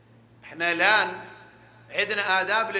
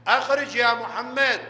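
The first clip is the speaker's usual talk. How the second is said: a mild mock shout, voice only slightly raised; mock calling out; 3 semitones higher, 3 dB louder than usual. People outside the door calling the Prophet out, in a mild mock shout. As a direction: imitate the crowd calling him out, but hold back. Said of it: "يصيحون".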